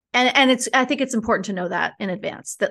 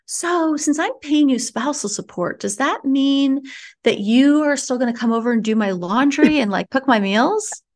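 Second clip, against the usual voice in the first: mocking ex-husband; 3 semitones higher than usual. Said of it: "my ex-husband was like".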